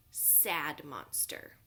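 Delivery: Sad said slow and low, falling; mopey Sad. Shown as a demonstration. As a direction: let Sad droop down slowly. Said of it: "Glad is another word for happy".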